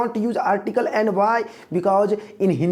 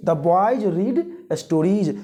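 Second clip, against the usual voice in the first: slow answer, a touch quicker than the blank; much slower than usual. Shown as a demonstration. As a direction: read the answer slowly. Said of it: "बोलिए". (धीमे से उत्तर)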